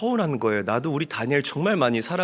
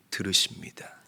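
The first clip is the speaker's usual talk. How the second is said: whisper; 6 semitones lower, 6 dB quieter than usual. Real, not acted. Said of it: "whispered climax after loud line".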